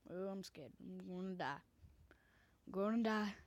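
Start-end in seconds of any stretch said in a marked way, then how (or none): 2.7-3.3 louder mock panic. Shown as a demonstration. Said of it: "Don't know how I do that voice".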